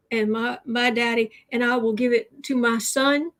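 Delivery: lightly imitating a small-town West Virginia junkyard owner; West Virginia caricature.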